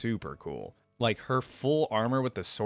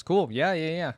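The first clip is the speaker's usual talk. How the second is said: a burst of real delight, higher and louder; light up at the news, voice jumping up; excited; 7 semitones higher, 6 dB louder than usual. Real, not acted. Reacting to a real replica of the blade, excited and loud.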